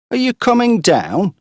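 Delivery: high, loud call upward. Acted. Morris calling up to the girl, loud. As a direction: shout up the haystack.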